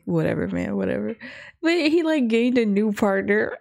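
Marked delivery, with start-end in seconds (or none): 0.0-1.1 low-pitched, lightly mocked brush-off; retold indifference. Retelling the partner who gave up on him, mock indifference. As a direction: imitate an uninterested partner, pitch dropped. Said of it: "his partner was just like".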